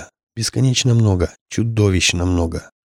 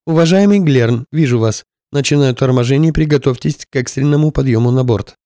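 raised, urgent radio call; 4 semitones higher, 3 dB louder than usual. Acted. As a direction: call it out over the comms. Pilot calls the survivor.

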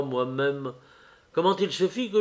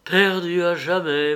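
despairing cry; 4 semitones higher, 3 dB louder than usual. Acted. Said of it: "m'écriai-je".

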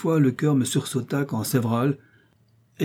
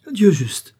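a loud, breathy whispered cry, much higher; horrified exclamation; 7 semitones higher, 7 dB louder than usual. A narrator's reading. Narrator sees the twisted foot and cries out in horror. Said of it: "m'écriai-je".

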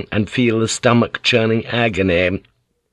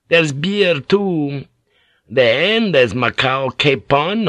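lightly voiced, raised, unhurried priest dangling a feast; tempting priest; 5 semitones higher than usual. Priest tempting the starving pilot with food, lightly raised and coaxing. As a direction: coax the hungry man with each dish, a touch higher than narration.

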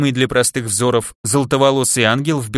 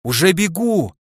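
higher call back in a put-on voice; крик в ответ; 5 semitones higher than usual. A narrator's reading. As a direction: call back that you're coming. Calls back to the foreman. (высокий отклик издалека)

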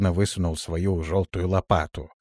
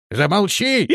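yelling; 11 semitones higher, 4 dB louder than usual. A narrator's reading. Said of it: "завопил шаман".

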